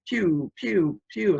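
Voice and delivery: imitated fireworks shooting upward; little spoken whooshes, one after another; firework noises. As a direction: mimic rockets going up. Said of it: "like fireworks".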